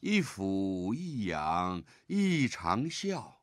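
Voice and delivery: slow, measured recitation; poem recitation. Shown as a demonstration. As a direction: set out the third line slowly. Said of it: "我们看第三句". (慢读第三句)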